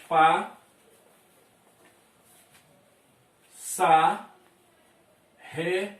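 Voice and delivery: "Pa", "sa", "re" with long gaps between; sounds spelled out. Shown as a demonstration. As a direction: sound out the syllables slowly. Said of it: "Transcrevê-la foneticamente".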